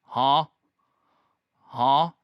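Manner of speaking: short, loud questioning "huh"; blurted, puzzled meme-cat "huh?"; confused cat meme. Retold or imitated. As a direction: imitate a meowing cat asking a question. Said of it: "I'll just go randomly like".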